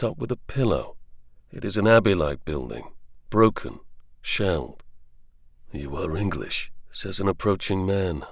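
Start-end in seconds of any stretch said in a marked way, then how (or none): 5.7-6.7 put-on low, soft French-accented doctor; a hint of a gentle French doctor. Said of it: "low and soft, in a strong French accent".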